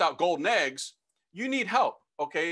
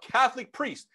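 higher-pitched, restrained holler; retold yell; 6 semitones higher than usual. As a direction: re-enact calling for someone down a hallway. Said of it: "So I yelled out".

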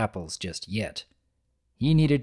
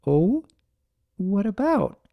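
higher, relieved mare; curious Fluttershy; 8 semitones higher than usual. Acted. Fluttershy asking Big Mac, higher relieved voice.

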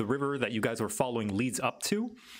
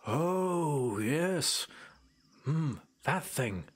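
lightly voiced island native, musing and lilting; knowing island elder; 3 semitones higher than usual. Island native tells visitors about the guardian, musing and lightly in character. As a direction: explain it as a well-spoken local guide. Game master plays Clyde.

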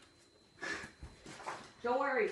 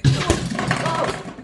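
startled oh; 6 semitones higher, 8 dB louder than usual. Real, not acted. Nearly drops the object.

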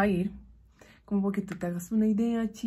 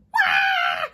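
retold scream; 4 dB louder than usual. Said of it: "él gritó".

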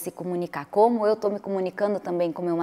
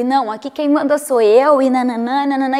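louder bossy imitation of herself; mock domineering wife; 4 semitones higher, 7 dB louder than usual. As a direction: play the one in charge. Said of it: "eu ia lá por cima".

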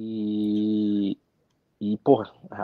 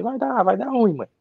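higher, half-joking doom to his mother; mock gloomy warning; 10 semitones higher than usual. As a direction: play it as a light mock prophecy of trouble. Tells mom it'll go wrong.

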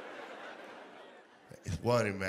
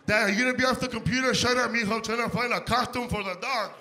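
put-on kid and dad voices; 7 semitones higher than usual. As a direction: act out the family at the computer. Kid nagging dad, dad snaps back.

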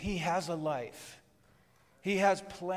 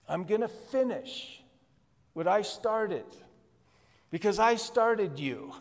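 God's voice, preached. Pretend. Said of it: "God is saying, in essence".

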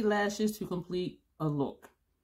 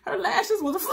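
words lost in high breathless laughter; giggling fit mid-story; laughing hard; 11 semitones higher than usual. Real, not acted. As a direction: laugh helplessly through the words. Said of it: "I'm laughing so hard".

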